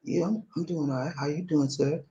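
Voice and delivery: mock frightened mumble; boy shrinking before the inmate; timid boy.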